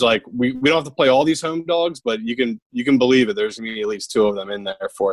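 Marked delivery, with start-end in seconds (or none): 0.5-2.0 real Philly accent, pitched higher. Real, not acted. Cohost arguing about the betting picks, Philly accent. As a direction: let the Philly accent slip out. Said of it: "so fucking Philly when you just said".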